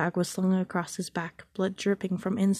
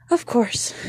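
pinched and worried; 5 semitones higher, 6 dB louder than usual. A narrator's reading. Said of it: "her voice pinched and worried".

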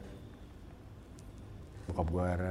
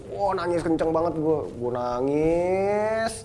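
louder, higher, last word drawn right out; dramatized crying; 7 semitones higher, 6 dB louder, much slower than usual. Retold or imitated. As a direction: stretch the final word into a long rising mock wail. Dramatizes how hard he cried.

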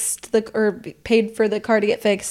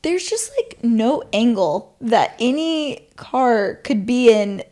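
doubting dad; 2 semitones higher than usual. Retold or imitated. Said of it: "And he's like".

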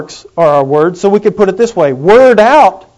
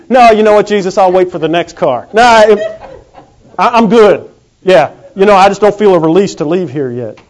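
mock reluctant soul, louder; hammed-up spirit refusing to go, louder; 5 dB louder than usual. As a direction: play a dead man too comfy to leave. Voicing spirits refusing Jesus.

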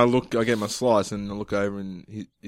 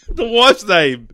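"wife's" drawn out, louder and higher; slow, pointed stress on "wife's"; exasperated correction; 7 semitones higher, 5 dB louder, much slower than usual. Real, not acted. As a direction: spell out "wife's" slowly and emphatically. Correcting a misheard question.

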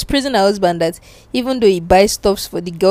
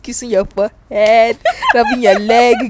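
laughing. Real, not acted. Laughs while listing sweet gestures.

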